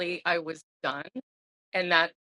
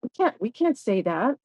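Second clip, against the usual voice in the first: friends protesting; 4 semitones higher than usual. Retold or imitated. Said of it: "they're like".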